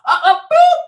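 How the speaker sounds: high, loud mock boop; imitated yelling noise. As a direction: burst into a high-pitched mimicked noise. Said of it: "The moment a man yells".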